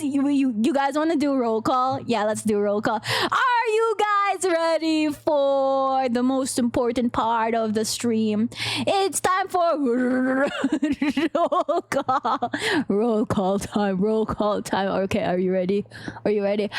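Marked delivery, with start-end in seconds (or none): 3.3-12.5 mock announcer. Announces roll call to chat. 12.9-16.7 deep voice. Shown as a demonstration. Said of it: "the lowest I can go comfortably".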